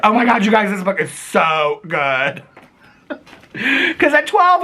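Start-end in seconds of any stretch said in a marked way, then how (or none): 0.0-2.4 mock gushing. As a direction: fake rave about the book. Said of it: "I'll come on here tomorrow and be like".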